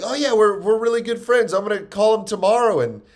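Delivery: enthusiastic gal. Retold or imitated. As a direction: lightly act out her chatty excitement. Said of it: "she was like".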